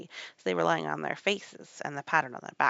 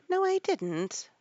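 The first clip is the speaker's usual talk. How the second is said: high, louder, stretched contradiction; indignant denial; 13 semitones higher, 5 dB louder, slower than usual. A narrator's reading. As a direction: deny it emphatically. Alice contradicts the Rabbit.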